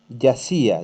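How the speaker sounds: yacía with the stress marked on the í. Shown as a demonstration. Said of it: "la voz se marca".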